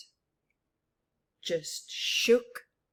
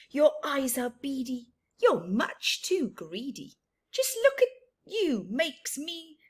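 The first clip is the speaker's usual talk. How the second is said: a hint of a cross bird, a bit louder; grumpy go-away bird; 4 semitones higher, 5 dB louder, faster than usual. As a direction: grumble the refusal in rhyme. Go-away bird's rhyming refusal.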